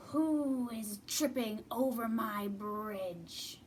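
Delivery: slow, menacing troll voice; lightly voiced mean troll. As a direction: drag it out like a troll guarding his bridge. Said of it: "a mean troll".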